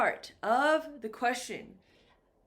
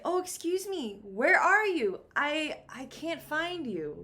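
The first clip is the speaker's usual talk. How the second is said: higher-pitched acted call; searching for someone; 5 semitones higher than usual. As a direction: play someone looking for a friend, voice lifted high. Acted call to a missing friend.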